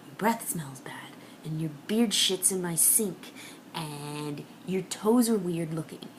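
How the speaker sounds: low, hushed morning grumble; softly murmured list of irritations; muttered complaint. Acted. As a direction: grumble it under your breath at a partner. Acted grumbling at sleeping partner.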